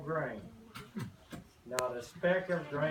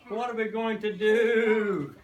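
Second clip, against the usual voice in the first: loud, slow crowing rooster; 5 semitones higher, 8 dB louder than usual. Acted. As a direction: crow it out in alarm. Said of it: "crowed the rooster".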